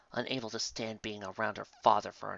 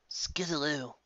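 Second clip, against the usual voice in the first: mother calling; 5 semitones higher, slower than usual. A narrator's reading. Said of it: "her voice calling out to her".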